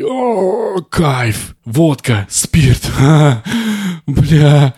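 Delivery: put-on loud, high, drunken whooping; rowdy partying students. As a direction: shout it like a wasted student on holiday. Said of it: "Они просто на Волгу приехали и".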